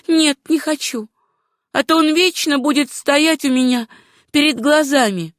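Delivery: high-pitched heroine's voice; refusing heroine. Acted. Susanna refuses the doctor's offer.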